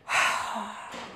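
long, soft exhale; heavy sigh. Retold or imitated. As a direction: let out a drawn-out breath. Pause before the confrontation escalates.

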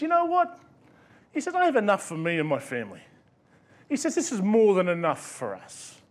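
put-on a touch of Mexican accent, easygoing. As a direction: lightly voice a relaxed Mexican fisherman. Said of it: "I apologise for the accent".

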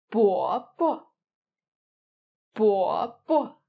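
"bo bo" with a stressed first syllable and a short, light second; uncle, "bo bo" with light second syllable; neutral tone bobo. Shown as a demonstration. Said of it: "the second syllable is also a neutral tone".

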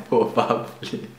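soft, slow "pro-bah-blee" for Probably; Probably with open German a; totally German. Shown as a demonstration. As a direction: repeat Probably softly as German. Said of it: "I'll pronounce them totally German".

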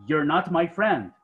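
"You're not my friend" said slowly and clearly; slow model sentence. Shown as a demonstration. Teacher slowly modelling the contracted sentence. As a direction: give the contraction slowly for learners. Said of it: "puedo decir".

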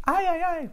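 the English diphthong I, gliding from ah to ee; English I sound. Shown as a demonstration. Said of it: "pronúncia é I".

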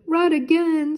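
a scared dog talking to himself; Scooby voice. A narrator's reading. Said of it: "Scooby said to himself".

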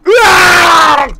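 long drawn-out shriek of disgust; disgusted scream. Real, not acted. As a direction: scream in real revulsion. Reacting to gross tongue video.

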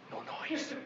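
whispered No noise, breath only; breathy whispered No noise. Acted. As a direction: hush the dog without voice. Hushing dog at night.

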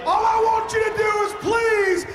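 gruff shouted brag; wrestling promo. Acted. Shouted one-man gang promo.

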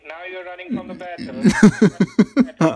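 loud, slow, drawn-out yell; angry shout. Real, not acted. Scammer shouts that the caller is running from the fight, slow angry yell. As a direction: blast the taunt, stretching every word.

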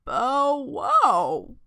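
playful storybook bow-wow; woofed. A narrator's reading. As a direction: woof the words like a hound. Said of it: "boofed Mister Muzzletuff".

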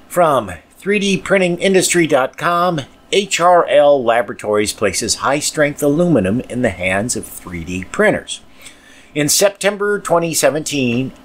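measured, slightly lifted reading voice; podcast news read; news article read. Acted. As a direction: read the article aloud to listeners.

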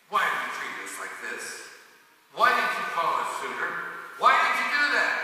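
builds from firm to a loud, high, furious demand; angry challenge. Acted. Angry Ephraimite confronting Gideon to his face, rising to a shout. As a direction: get in his face and push harder each question. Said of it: "how would you say this if you were an Ephraimite".

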